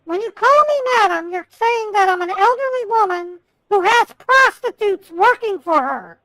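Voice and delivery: fast, heated complaint. Real, not acted. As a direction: lecture him angrily. Customer furious about being called madam.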